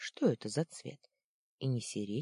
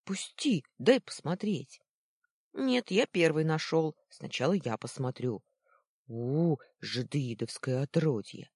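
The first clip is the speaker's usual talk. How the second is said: put-on two kids pushing and sneering, a bit louder; bickering boys; 4 dB louder than usual. Boys fighting over the peephole, then scorning Luna. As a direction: spit the insult like a scornful child.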